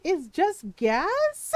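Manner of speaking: slow, drawn-out disbelief; exasperated protest. Retold or imitated. Wife defending Ron against work bully, exasperated. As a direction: stretch it out, questioning the fuss.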